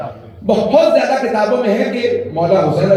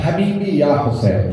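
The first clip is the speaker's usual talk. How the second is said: tender loving call; 5 semitones lower, slower than usual. Retold or imitated. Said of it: "اور پھر کیا فرمایا؟".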